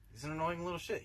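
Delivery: exasperated father. Retold or imitated. Father complaining to mother about their son, mock exasperated. Father voiced in parents' quarrel.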